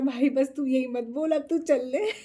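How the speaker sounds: telling the bragging driver to just drive, laughing; laughing plea. Retold or imitated. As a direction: beg him through laughter to just drive. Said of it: "मैंने कहा".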